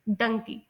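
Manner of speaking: डंकी with a short "uh" vowel, like dunky; the common error डंकी; wrong donkey. Shown as a demonstration. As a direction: say डंकी the mistaken way, "dun-kee". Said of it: "गलत pronounce करते हैं और कहते हैं".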